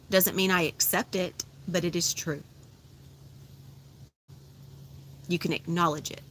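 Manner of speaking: guided meditation. Acted. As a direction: invite them to feel each word blossoming.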